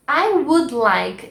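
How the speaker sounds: slow, careful English; slow model phrase. Shown as a demonstration. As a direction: say it slowly for the class. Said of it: "a frase I would like". (devagar, bem pronunciado)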